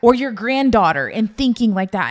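loud, appalled challenge; retold indignation, pushed out hard; disgusted outrage. Mother challenging her in-laws' thinking, disgusted outrage. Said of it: "I was so disgusted".

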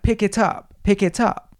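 lightly voiced pushy child; mock demanding child. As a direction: mimic a child giving orders. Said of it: "this five-foot child screaming at me".

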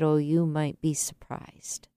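soft whispered reassurance, Oh, you might be surprised barely voiced. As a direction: whisper it gently to a heartbroken stranger. Gentle reply to a heartbroken man.

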